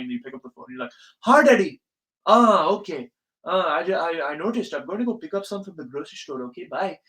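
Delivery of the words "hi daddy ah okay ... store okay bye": loud greeting in a mock Indian accent. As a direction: obedient child answering dad, Indian accent. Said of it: "like, an Indian accent".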